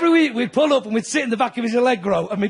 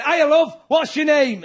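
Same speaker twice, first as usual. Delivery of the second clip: cheery Mancunian hiya to a woman in the front row; dead friendly greeting; 4 semitones higher, slower than usual. Retold or imitated. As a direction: greet her like a chummy Northerner. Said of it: "I'm dead friendly".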